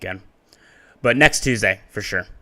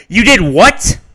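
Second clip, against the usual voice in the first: high, loud scream of disbelief; 9 semitones higher, 16 dB louder than usual. A narrator's reading. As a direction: shriek it in outrage. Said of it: "Storen then screamed".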